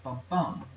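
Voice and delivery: da-DUM, second beat stronger; iamb rhythm. Shown as a demonstration. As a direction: say bum bum as an iamb, weak then strong. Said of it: "has the pattern".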